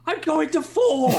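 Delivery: high, drawn-out holler; mock shout. Teammate calling out a number to the group, shouted. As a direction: yell it out across the team. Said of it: "just shout your fucking numbers out".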